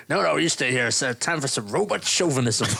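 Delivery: lightly put-on Southern American robot voice; Southern robot impression. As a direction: quote the robot with a hint of Southern twang. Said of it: "the line is like".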